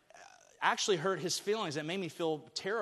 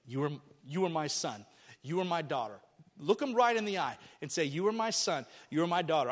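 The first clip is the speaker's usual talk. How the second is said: tender blessing. Shown as a demonstration. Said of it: "look at your kids and say".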